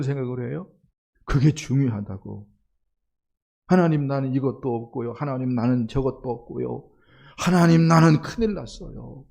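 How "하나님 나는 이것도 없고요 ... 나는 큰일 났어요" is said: fretful complaint rising louder at the end; worried grumbling plea, louder at the end; grumbling prayer. Retold or imitated. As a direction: whine to God about what you lack. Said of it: "원망하고 불평하고".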